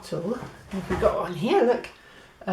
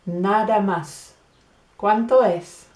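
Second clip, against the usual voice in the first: customer asks the price brightly; customer asking price; 6 dB louder than usual. Acted. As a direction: customer asks the seller how much. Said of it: "una conversación like this".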